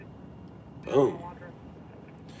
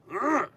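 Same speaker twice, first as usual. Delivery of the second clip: urgent groan; 7 semitones higher, 8 dB quieter than usual. Real, not acted. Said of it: "I gotta pee".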